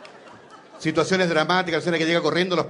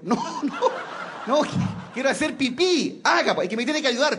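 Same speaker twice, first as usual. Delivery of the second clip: put-on high kid laughing as he pleads; little boy voice; 7 semitones higher than usual. Boy insisting the policeman help him, high childish voice.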